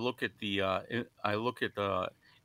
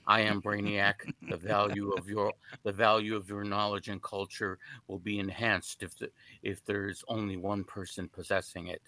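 lightly voiced mock supervillain; hint of a grandiose comic-book villain; Brainiac voice. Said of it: "a very bad impression of a, uh, supervillain".

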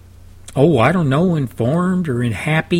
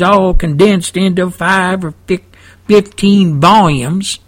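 South Texan dialect; 3 semitones higher than usual. Shown as a demonstration. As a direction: stretch the key words in South Texan. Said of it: "talking in my South Texan dialect".

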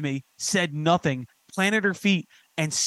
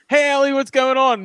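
imitated fan greeting; 9 semitones higher, 6 dB louder than usual. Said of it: "famous bands will comment and be like".

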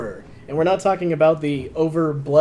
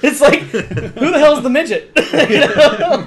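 laughing through the words; high giggly delivery; 10 semitones higher, 8 dB louder, slower than usual. Real, not acted. Joking about the mini Jason.

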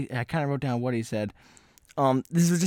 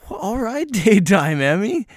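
sarcastic; 7 semitones higher, 5 dB louder, slower than usual. Retold or imitated. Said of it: "I was like".

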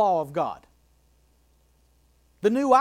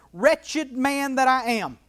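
louder, pained cry of despair; anguished cry; 4 semitones higher, 5 dB louder than usual. Acted. Preacher voicing Paul's anguished cry. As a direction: let the angst ring out. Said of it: "Hear the angst, hear the despair".

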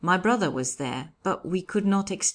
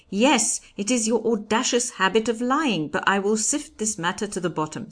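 loud, raised judicial rebuke; louder exclamation; 6 semitones higher, 4 dB louder than usual. A narrator's reading. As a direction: exclaim it over the accused. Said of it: "the judge exclaimed louder still".

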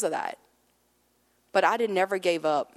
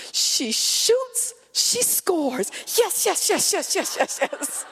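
drawn-out sportscaster call into high rapid cheering; exaggerated crowing, like scoring the winning goal; hammed-up triumphant cheer; gleeful mock celebration; 10 semitones higher, much slower than usual. Child imitating mom's gleeful celebrating.

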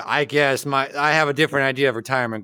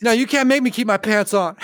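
put-on drunken posh sneer; 6 semitones higher than usual. Hunter role-play, bratty refusal.

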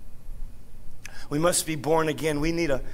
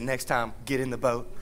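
quiet rebuke; 5 semitones lower, 6 dB quieter than usual. Acted.

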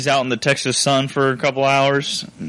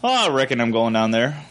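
casual Southern twang. Shown as a demonstration. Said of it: "but then I throw".

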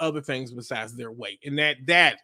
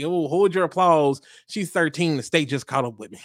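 punchline delivery; 4 dB louder than usual. Retold or imitated. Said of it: "and then you say".

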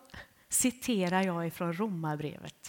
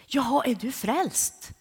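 quoting the doctor; 4 semitones higher, 6 dB louder, slower than usual. Retold or imitated. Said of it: "Och då säger läkaren".

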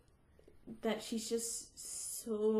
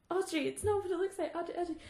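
put-on pleading boyfriend; 6 semitones higher, much faster than usual. Acting Harry pleading to Audrey.

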